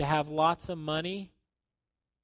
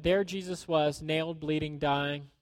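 quoted reverently; 3 semitones lower, 3 dB quieter than usual. Retold or imitated. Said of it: "He said".

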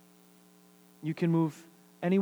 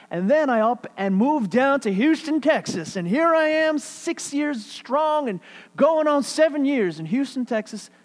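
mounting excitement; 9 semitones higher, 6 dB louder than usual. Real, not acted. Rising story of moving.

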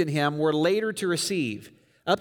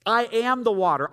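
emphatic repeat; 5 semitones higher than usual. Retold or imitated. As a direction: hit "I am the water" with force. Claim repeated, now emphatic.

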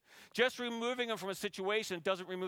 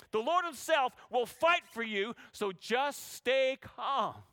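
calm reassurance; slower than usual. Acted. Moses reassuring people.

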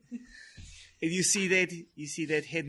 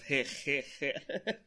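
nervous laugh; 3 dB quieter than usual. Real, not acted. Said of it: "this is my nervous laugh".

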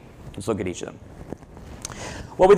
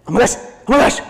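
high, louder thrilled gasping; excited kid; 10 semitones higher, 5 dB louder, faster than usual. Retold or imitated. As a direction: squeal like a kid who just won. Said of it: "he goes".

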